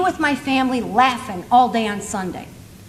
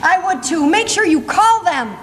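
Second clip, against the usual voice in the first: slow, slightly raised punchline; punchline delivery; 4 semitones higher than usual. Shown as a demonstration. Speaker springing her surprise joke on the audience, slow punchline delivery. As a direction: land the joke slowly and emphatically. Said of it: "the timing was off".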